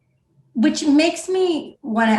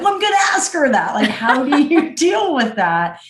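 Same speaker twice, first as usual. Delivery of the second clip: eager retold reply; 8 semitones higher, 5 dB louder than usual. Her own reply retold.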